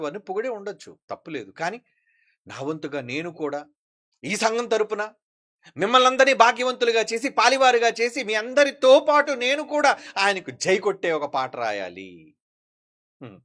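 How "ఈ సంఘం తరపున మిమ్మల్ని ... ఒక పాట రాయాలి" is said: energetic, rising sermon declaration; fervent preaching. Acted. Preacher telling his church he must write a praise song, fervent preaching.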